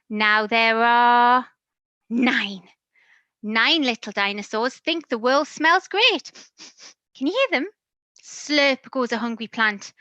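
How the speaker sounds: lively, sing-song storybook reading; animated picture-book narration; reading to children. A narrator's reading. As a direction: read it like bedtime to a toddler.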